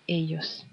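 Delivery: "Ellos" said as "eyos", the double L sounded like a J. Shown as a demonstration. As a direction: say "Ellos" with a J sound in the middle, eh-yos. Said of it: "dobbelt L lyder ligesom".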